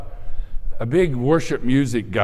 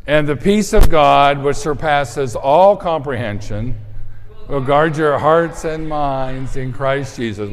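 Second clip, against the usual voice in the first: louder, slower verse read; group recitation; 4 dB louder than usual. Shown as a demonstration. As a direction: lead the whole room in the verse. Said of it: "So here we go".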